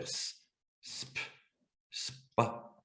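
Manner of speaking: soft isolated "s", then "sp", then "spa"; hissed "s" growing into "sp", "spa"; sound-by-sound decomposition. Shown as a demonstration. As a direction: build "spa" up quietly, pausing between steps. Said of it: "je vais faire".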